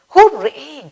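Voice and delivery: bright, high cheer; joyful hooray. Shown as a demonstration. Teacher cheers about going on a picnic.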